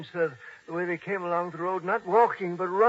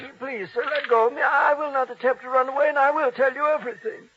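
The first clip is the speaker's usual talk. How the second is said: frightened pleading; 6 semitones higher, 5 dB louder than usual. Acted. Old man grabbed, pleading.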